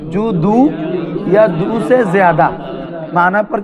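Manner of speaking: "জু দু ... ইয়া দু সে জিয়াদা" in separate chunks, pausing after each; feed "জু দু" and "ইয়া দু সে জিয়াদা" phrase by phrase for a class to repeat; prompting for repetition. Shown as a demonstration. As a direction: dictate "জু দু, ইয়া দু সে জিয়াদা" firmly, with gaps between phrases. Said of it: "বলো".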